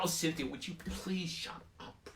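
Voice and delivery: whispered hush. Retold or imitated. Tommy Alton to Cynthia, a whispered shush. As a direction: hiss it to quiet her. Boy hushing her.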